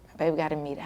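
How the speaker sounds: a hushed, breathy telling; whispered aside. Retold or imitated. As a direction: drop to a worried whisper. Anxious retelling, dropping voice.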